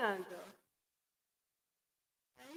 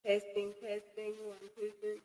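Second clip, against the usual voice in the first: flat testing count into the mic; testing one two three into the mic; mic check; 3 dB quieter than usual. Shown as a demonstration. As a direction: run a quick sound check count. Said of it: "mic check".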